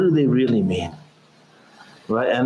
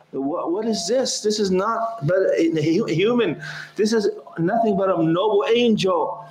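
amazed women; 6 semitones higher than usual. Retold or imitated. Women astonished at Yusuf.

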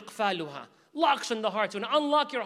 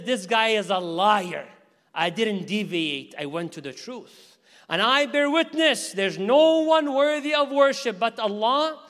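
loud declaration; 2 semitones higher, 6 dB louder than usual. Acted. Umar declares publicly.

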